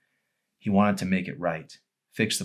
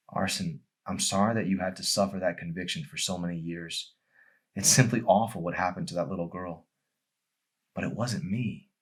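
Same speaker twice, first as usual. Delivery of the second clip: gentle; 3 dB quieter than usual. Acted. Emery gently reassures Arson.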